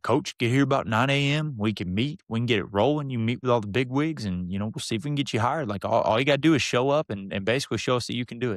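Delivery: lightly imitated country coach; a hint of folksy coach pep talk; Coach Vincent. Coach lays out interview morning, lightly imitated country voice. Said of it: "good old country boy from Vernon".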